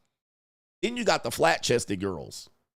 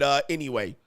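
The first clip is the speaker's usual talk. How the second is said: ordinary talk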